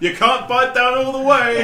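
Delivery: high, loud laughing words; giggling through the joke. Real, not acted. Laughing riff.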